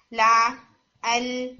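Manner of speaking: لا، ال said from just the tongue tip; tip-only lam. Shown as a demonstration. Teacher showing students the Urdu-style lam, ال from the tongue tip only. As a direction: say ال with only the tip, not spread. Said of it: "تو وہ ہم بہت ٹپ سے بولتے ہیں".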